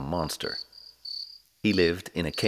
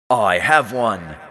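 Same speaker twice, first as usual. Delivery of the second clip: monster voice; 3 semitones higher, 8 dB louder, slower than usual. A narrator's reading. Monster answers.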